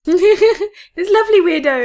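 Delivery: slow laughing fondness. Real, not acted. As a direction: laugh through it, drawn out. Laughing fond remark.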